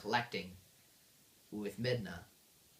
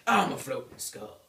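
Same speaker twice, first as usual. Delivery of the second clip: loud, goofy monster voice; skull boss; 5 dB louder than usual. Acted. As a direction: boom it out as a comic floating skull. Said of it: "And then he's like".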